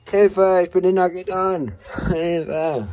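playful shout for help; mock cry for help. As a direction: fake a call for help from a cell. Mock cry for help behind bars.

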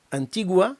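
«Antigua» ending on gliding ua; final diphthong. Shown as a demonstration. Teacher points at the ending, gliding diphthong. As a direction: glide u into a at the end of «Antigua». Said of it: "в кінці відчувається дифтонг".

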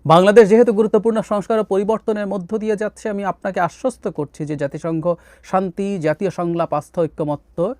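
formal read-aloud of a translated UN statement; measured formal statement reading. Acted. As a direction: read it out steadily like an official text. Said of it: "আমি একটু যদি পড়ি".

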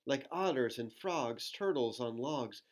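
lilting storybook read-aloud; reading to children. Acted. Reading a rhyming book to children, lilting. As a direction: read the rhyme to little ones.

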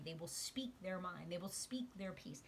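breathy whispered affirmation; hushed, secret tone. Real, not acted. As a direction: drop to a whisper on it. Whispered affirmation during reading.

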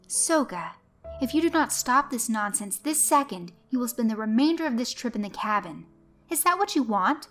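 mother laying down an ultimatum; mother threatening to confine daughter to the cabin, sharp and demanding. Acted. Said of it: "her mother demanded".

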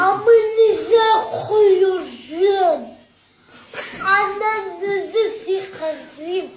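slow wailing shout; drawn-out crying yell. Real, not acted. Drugged boy crying after surgery.

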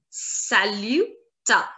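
saluta drawn out slowly; slow drill. Shown as a demonstration. Teacher slowly drilling saluta. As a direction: stretch saluta syllable by syllable. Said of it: "Together it will be saluta".

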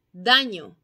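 "daño" dicho fuerte y claro; palabra modelo. Shown as a demonstration. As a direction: presentar la palabra a los niños. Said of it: "les he estado diciendo". (maestra dicta palabra)

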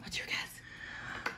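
slow hushed whisper. Real, not acted. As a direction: keep it secret, whisper slowly. Whispered reply to whispered partner.

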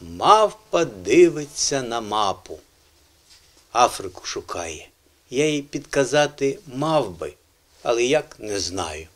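measured verse with pauses between lines; poem recital. Acted. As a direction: recite a short children's verse line by line. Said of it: "я прочитаю вірш".

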